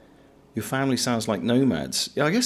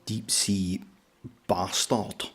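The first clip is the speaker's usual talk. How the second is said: fair attempt at a Scottish accent, still partly English; gruff Scottish oil rig worker, lightly done. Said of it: "That's a fair attempt at a Scottish accent".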